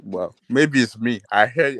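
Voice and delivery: ordinary delivery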